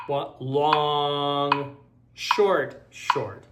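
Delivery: long held, then two short clipped calls; counting the rhythm. Shown as a demonstration. Teacher counting long short short to the class. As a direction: call out the rhythm in time. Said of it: "a half note long and two quarter notes short".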